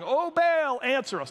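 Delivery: high calling cry to a god; shouting to Baal. A narrator's reading. Prophets crying out to Baal, high calling shout.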